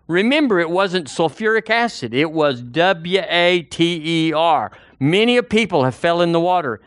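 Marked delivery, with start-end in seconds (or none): 2.1-4.7 each letter W A T E R said slow and apart; spelled out slowly. Shown as a demonstration. Preacher spelling water to the congregation, slow letters. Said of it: "spelling the word out".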